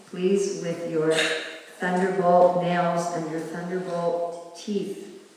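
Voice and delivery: hushed devotional petition trailing to a close; solemn prayer. Real, not acted. Leads congregation in prayer to deity.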